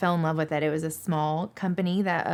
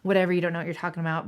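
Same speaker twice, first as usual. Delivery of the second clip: quick, offhand mock dismissal; imitated brush-off; much faster than usual. Old-school driver brushing off a young female dispatcher, dismissive. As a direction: rattle it off, sloughing her off. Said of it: "kinda slough you off like".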